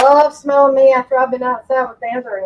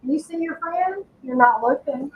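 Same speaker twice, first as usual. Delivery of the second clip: soft coaxing; 3 semitones higher, 4 dB quieter than usual. Real, not acted.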